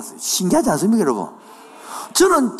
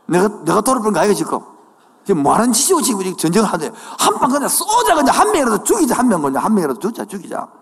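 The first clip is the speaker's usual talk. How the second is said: mock grumbling soldiers; 2 semitones higher, faster than usual. Preacher acts out grumbling soldiers.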